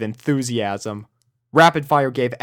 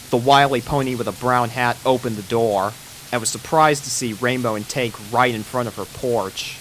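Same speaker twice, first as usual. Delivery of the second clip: ordinary delivery, nothing marked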